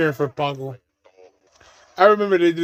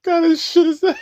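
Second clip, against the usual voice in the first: mocking indignant droid; 11 semitones higher than usual. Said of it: "When I came, like".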